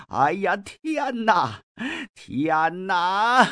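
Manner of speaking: slow, drawn-out hammed-up wail of grief; mock wailing. Mi Heng wails at the silent advisers, hammed-up crying. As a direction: wail it out like a theatrical mourner. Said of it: "而后突然之间是放声大哭啊".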